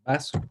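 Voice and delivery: "vaso" with the same B as beso. Shown as a demonstration. Teacher showing that "vaso" sounds like beso. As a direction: say "vaso" starting with a B, lips closed. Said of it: "y también puedo decir".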